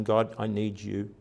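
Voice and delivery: soft, earnest prayer to God; a hushed, sincere cry for help; heartfelt plea. Retold or imitated. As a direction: plead quietly, from the heart. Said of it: "he's actually crying out".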